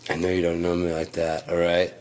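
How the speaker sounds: yelling, loud and slow; angry rant at coworker. Retold or imitated. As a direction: lay into her, word by word. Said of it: "I was like".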